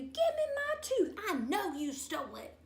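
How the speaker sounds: high, loud demand; yelling at the sister in the tree. A narrator's reading. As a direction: yell it up at the thief. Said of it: "I yelled".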